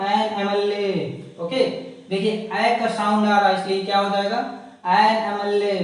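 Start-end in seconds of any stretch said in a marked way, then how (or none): 0.1-1.4 an M L A spelled out very slowly; slow answer. Shown as a demonstration. Teacher slowly spelling out the answer to students. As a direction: give the answer word by word.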